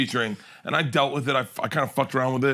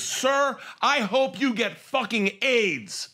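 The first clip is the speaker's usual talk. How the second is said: mock nasty comic; 7 semitones higher, much slower than usual. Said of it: "he goes".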